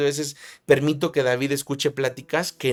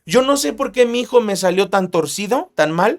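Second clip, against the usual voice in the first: higher-pitched complaining parent; lamenting parent; 4 semitones higher, 3 dB louder than usual. Retold or imitated. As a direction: whine like a puzzled parent. Parent lamenting about a child. (padre que se queja, voz más aguda)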